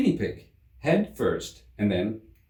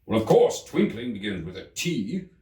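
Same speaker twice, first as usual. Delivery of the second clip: sharp King. Acted. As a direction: correct him sharply. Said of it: "said the King sharply".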